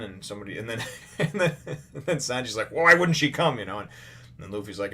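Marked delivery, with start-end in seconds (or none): 2.7-3.6 high, loud incredulous question; mock indignant Sanji. Sanji demanding why Nami would stay behind, high and loud. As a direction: Sanji protesting, pitched up high. Sanji voiced in retold scene.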